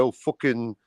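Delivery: lightly voiced bored friend, rising to a shout on tits; a hint of Jens waving the plot away; mock impatience, half-shouted at the end; impatient Jens. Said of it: "Jens is gonna be sitting there going".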